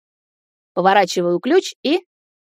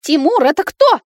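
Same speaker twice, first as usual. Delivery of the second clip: high, loud plaintive wail; wailing again; 9 semitones higher, 6 dB louder than usual. Acted. Girlfriend wails at the boy's arrival. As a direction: Nata wails the question at Timur. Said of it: "снова заголосила Ната".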